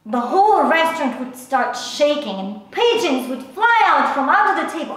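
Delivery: animated, swooping storytelling; worked-up account of a wild dream; agitated dream retelling. Acted. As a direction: let the disaster pour out with mounting urgency. Recounting a crazy dream disaster.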